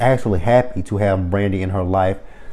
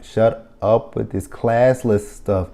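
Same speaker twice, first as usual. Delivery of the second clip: dismissive; slower than usual. Retold or imitated. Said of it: "I'm like".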